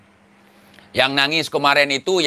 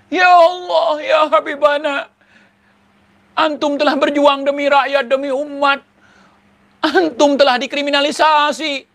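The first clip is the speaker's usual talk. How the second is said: mock crying plea; 10 semitones higher than usual. Mocking a weeping follower pleading to the Habib. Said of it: "Budak langsung nangis melihat".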